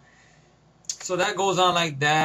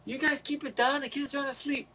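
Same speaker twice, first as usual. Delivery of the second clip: softer, higher, shushing the noisy friends; imitated hushed scolding; 7 semitones higher, 6 dB quieter than usual. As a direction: act out keeping them quiet for sleeping kids. The speaker voiced shushing the others.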